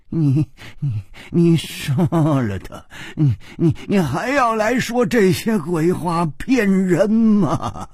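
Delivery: stammering anger, rising in pitch. Acted. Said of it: "秋瓷王怒道". (气得结巴地怒斥)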